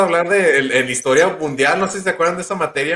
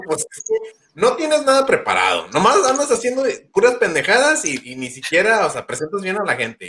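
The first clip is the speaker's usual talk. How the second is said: higher scolding father voice; dad's voice; 6 semitones higher than usual. Retold or imitated. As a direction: play the scolding dad, pitched up. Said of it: "Me dijo". (voz de papá regañando, aguda)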